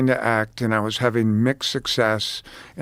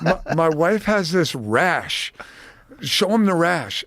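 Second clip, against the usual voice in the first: eager fan; 5 semitones higher, slower than usual. Retold or imitated. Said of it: "He's like".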